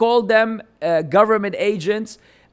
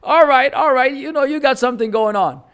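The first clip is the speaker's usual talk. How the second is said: higher-pitched imitated approval; mock approval; 5 semitones higher, faster than usual. Speaker retells how viewers once approved of him, mildly acted approval. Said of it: "we're like".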